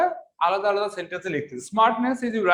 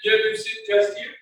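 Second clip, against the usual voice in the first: echoey ringing sound, like in a hall; echoing voice. Real, not acted. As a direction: voice echoing around a big room. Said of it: "sir, এখন ভয়েসটা ইকো হচ্ছে".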